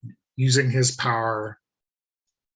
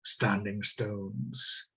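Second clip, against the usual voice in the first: slow, measured decree; Tridwolf's pronouncement; slower than usual. Acted. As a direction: pronounce it slowly, like a lightly voiced leader. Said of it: "reaction to this pronouncement".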